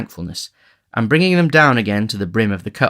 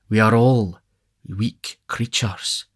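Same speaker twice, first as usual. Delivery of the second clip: beadle's voice; slower than usual. A narrator's reading. Beadle with his arm round the matron, slow echo.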